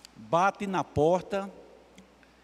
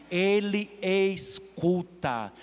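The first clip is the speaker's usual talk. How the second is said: reassuring slow; much slower than usual. Acted. Preacher consoling the congregation.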